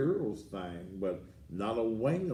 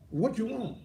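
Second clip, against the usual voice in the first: annoyed shout; 11 semitones higher than usual. Real, not acted. Answering phone irritated.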